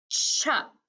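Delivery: "chup" as one joined syllable; blended word. Shown as a demonstration. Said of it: "One more time".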